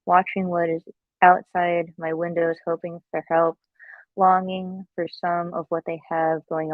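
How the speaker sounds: measured, earnest poem reading; poetry reading. Acted. Reads her own poem aloud.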